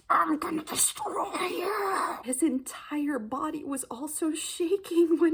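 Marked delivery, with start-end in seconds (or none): 0.1-2.2 breathy sinister whisper, slow; whispered menacing threat. Retold or imitated. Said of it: "his eyes that was like".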